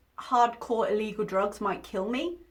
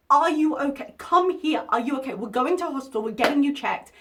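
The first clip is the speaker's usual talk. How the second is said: worried loud calling; 2 semitones higher, 5 dB louder than usual. Retold or imitated. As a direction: call out to her, alarmed and caring. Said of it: "I'd be like".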